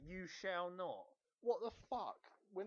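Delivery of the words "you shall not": mocking quote. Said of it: "what kind of wording is that".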